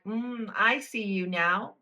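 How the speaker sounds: slow, knowing, a touch sinister; knowing menace. Retold or imitated. Reader sees through the villain, slow and knowing. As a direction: savour it like you've caught them out. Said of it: "I'm like".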